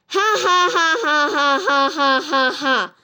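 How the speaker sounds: spelled-out "ha ha" laugh sliding down in pitch; principal's forced laugh. Acted. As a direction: laugh hard at your own bad joke. Principal laughs at his own joke.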